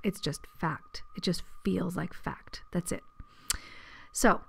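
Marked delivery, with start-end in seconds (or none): 0.0-3.0 soft unvoiced whisper; hushed and matter-of-fact. Real, not acted. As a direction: drop to a whisper to let it land. Describing intuition as plain fact.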